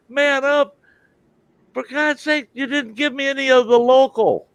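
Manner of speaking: high, outraged comeback; retold exasperated protest at the doctor; indignant retort. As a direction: throw her words back at her, incredulous.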